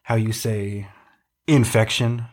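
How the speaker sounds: fake French accent. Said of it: "That's not a French accent".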